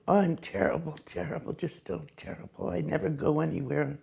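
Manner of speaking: fading into a soft moan; lightly voiced complaining aunt; moaning self-pity. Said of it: "her point of view was".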